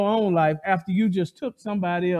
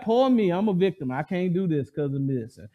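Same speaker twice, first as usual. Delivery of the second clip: mock whining. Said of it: "We start to po mouth".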